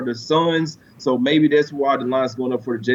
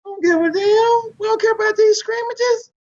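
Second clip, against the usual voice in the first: dismissive team voice. Retold or imitated. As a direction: play the cocky Bucks who couldn't care less, yelling it out. Voicing the Bucks' careless mentality.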